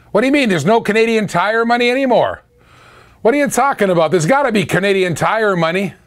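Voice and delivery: high, incredulous what do you mean; can't believe what he's hearing; stunned disbelief. Real, not acted. Reacting to news that Canadian Tire money is gone, stunned and high.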